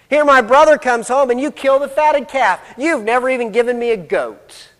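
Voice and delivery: mildly acted indignant complaint; accusing. Older son accuses his father of favoritism, mildly indignant. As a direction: press the grievance as a slighted son. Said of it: "he accuses his father of favoritism".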